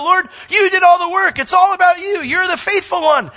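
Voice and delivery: very high, loud exclaim of praise; exultant praise. Retold or imitated. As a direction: cry out in joyful worship. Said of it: "throw their crowns down and go".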